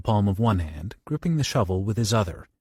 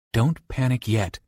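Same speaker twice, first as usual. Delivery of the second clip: distracted; slower than usual. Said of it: "Johnny called distractedly".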